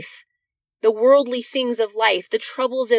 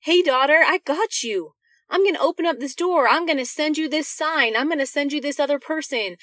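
lightly voiced tender God, a little higher; 3 semitones higher than usual. God comforting his daughter in a tender, reassuring voice. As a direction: gently reassure a hurting daughter. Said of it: "will provide you a way out to say".

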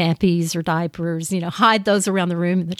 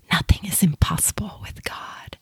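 soft whispered verse; whispering; 4 dB quieter than usual. Shown as a demonstration. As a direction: whisper it, no voice at all. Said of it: "let's say it in a whisper".

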